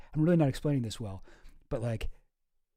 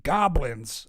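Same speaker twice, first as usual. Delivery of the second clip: Alex Jones impression; 4 dB louder than usual. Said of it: "how Alex Jones says it".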